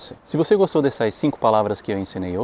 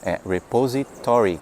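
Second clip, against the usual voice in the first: repository stressed on "to"; correct stress. Shown as a demonstration. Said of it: "sílaba tônica cai no to".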